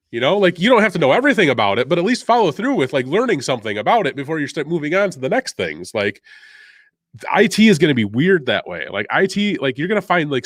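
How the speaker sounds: wired, fast and high-pitched rant; hyped up on coffee, racing along; too much caffeine. Real, not acted. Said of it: "you'd have this much energy".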